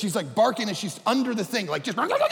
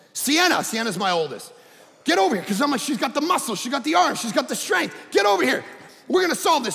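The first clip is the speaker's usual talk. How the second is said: calling out; 2 semitones higher than usual. Retold or imitated. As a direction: summon her with gusto. Dad calling daughter over.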